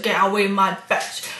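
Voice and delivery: broad Highland Scots accent, imitating a voice; broad Highland Scottish. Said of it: "really broad, kinda Highland Scottish accent".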